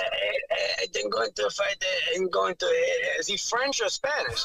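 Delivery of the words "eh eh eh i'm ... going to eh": mock halting Argentinian accent. Fighter mimicking his opponent, halting mock Argentinian accent. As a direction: lightly imitate an Argentinian accent, stumbling on "eh". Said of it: "use his accent".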